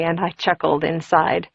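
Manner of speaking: ordinary delivery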